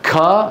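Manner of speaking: كا with a gush of air after the k; over-aspirated kaf. Retold or imitated. Teacher shows how some people say it, over-aspirated. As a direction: blow air through the k of كا. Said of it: "هيك بيحكوا".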